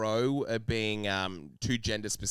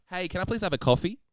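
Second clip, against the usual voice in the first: higher-pitched polite city order; modern Australian woman; 7 semitones higher, 3 dB louder than usual. Retold or imitated. Showing women and men sound alike nowadays, modern Australian woman. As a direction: ask lightly, rising at the end. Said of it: "Nowadays, it's like".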